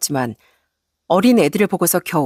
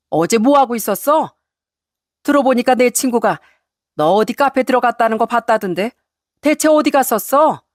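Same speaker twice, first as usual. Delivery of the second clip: raised, nagging interrogation; scolding mother-in-law; 3 semitones higher than usual. Acted. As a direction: pile on accusing questions with acted anger. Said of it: "이렇게 소리를 치자". (시어머니의 언성 높인 잔소리)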